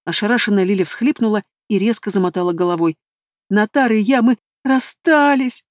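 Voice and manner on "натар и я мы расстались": high, slow wail through tears. A narrator's reading. Lilya wailing to her friend, drawn-out sobbing wail. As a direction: howl it out, heartbroken. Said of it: "провыла Лиля".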